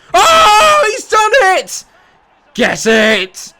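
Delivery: very high, loud cry of joy; ecstatic goal scream. Real, not acted. Free kick goes in.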